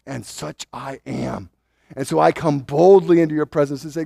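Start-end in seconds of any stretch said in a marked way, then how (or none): 0.1-1.5 trusting prayer. Retold or imitated. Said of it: "Piety is".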